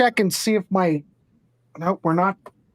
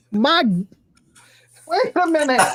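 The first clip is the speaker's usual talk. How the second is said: alarmed surprise; 5 semitones higher than usual. Real, not acted. Smoke fills the studio.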